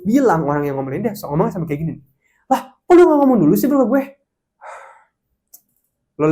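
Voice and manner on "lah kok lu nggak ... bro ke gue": high, loud, fast mock-angry complaint. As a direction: whine it like an irritated coworker. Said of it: "sambil marah-marah gitu".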